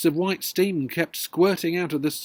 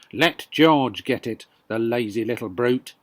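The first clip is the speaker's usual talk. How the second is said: mild mock shout; 4 semitones lower, 5 dB louder than usual. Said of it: "Grandma shouted".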